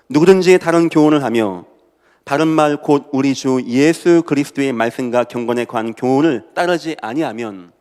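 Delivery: loud, emphatic Bible reading; scripture reading. Real, not acted. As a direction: read the verse out forcefully to the congregation. Reading a Bible verse aloud. (힘 있게 성경 봉독)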